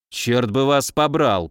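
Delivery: ordinary delivery, nothing marked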